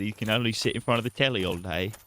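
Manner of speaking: half British, half Irish dad; an outraged British father, hammed up; a muddled British-Irish accent; mock British accent. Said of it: "half British".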